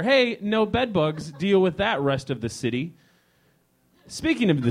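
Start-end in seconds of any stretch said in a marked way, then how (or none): 0.0-2.9 slow, hammed-up ad pitch; playful ad voice for hostel guests; mock flyer slogan. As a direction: sell it like a cheesy flyer slogan. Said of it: "That's something you need to put on a flyer".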